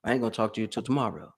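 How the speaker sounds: quick, no-nonsense coach voice; drill sergeant. Retold or imitated. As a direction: push the client like a drill sergeant. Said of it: "like a drill sergeant for my clients".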